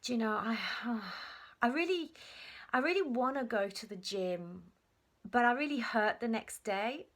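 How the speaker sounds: hesitant, sighing mock complaint, lifted in pitch; lightly voiced would-be gym-goer. Someone explaining why they can't go to the gym, mock reluctance. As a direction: imitate someone wistfully making excuses. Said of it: "it's like someone saying".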